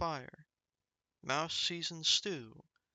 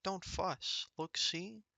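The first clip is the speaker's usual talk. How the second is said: squeaky mouse; 3 semitones higher than usual. Acted. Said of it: "Mouse squeaks".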